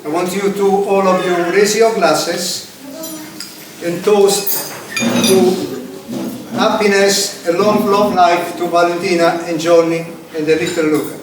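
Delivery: slow, ceremonial toast to the couple; wedding toast speech. Acted. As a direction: raise the glasses, stately and slow.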